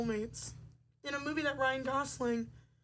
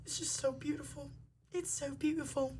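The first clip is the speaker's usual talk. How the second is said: put-on British accent; 5 dB quieter than usual. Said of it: "that's my British accent".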